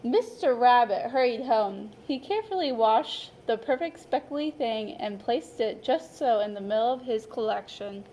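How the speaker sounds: lively, expressive picture-book narration; storyteller voice for a class of young children; reading to children. A narrator's reading. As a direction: read it like story time for little kids. Teacher reads picture book aloud.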